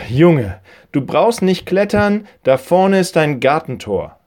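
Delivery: put-on an old woman calling across the garden. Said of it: "sagte die Dame".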